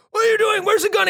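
cops shouting. Retold or imitated. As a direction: demand it like an armed officer. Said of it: "And they're like".

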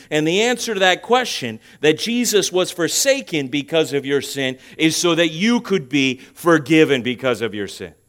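forceful preacher, easing down in pitch; emphatic sermon explanation; impassioned preaching. Real, not acted. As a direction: drive the point home loudly.

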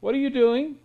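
indignant rising challenge. Real, not acted. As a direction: pitch jumps up, pressing hard. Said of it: "repeated, second louder".

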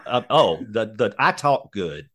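mock fumbling. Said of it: "Don makes us sound good".

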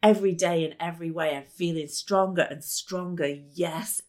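fast rhythmic chant; quick upbeat self-talk chant; incantation. Shown as a demonstration. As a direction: rattle it off like a mantra. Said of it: "Here's one that is really, really easy".

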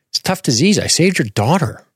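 high-pitched pompous tyrant; squeaky mock of a haughty doctor; pompous shrill tyrant.

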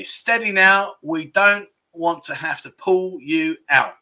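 measured, drawn-out clue reading; quiz clue repeat. Pretend. Host repeating the clue to players, slow quizmaster delivery. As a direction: read it out slowly, word by word.

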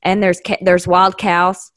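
mock country twang; super hick. Oklahoman puzzled by Ohio roads, mock hick accent. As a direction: play a baffled hick. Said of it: "sound super hick".

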